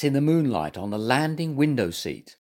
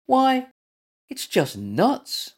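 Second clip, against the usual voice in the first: high start, slowing into disappointment; wailed; 12 semitones higher, 3 dB louder, slower than usual. A narrator's reading. Little Mutt finding only nuts up the tree, wailing. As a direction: let out a small dismayed wail. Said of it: "he wailed".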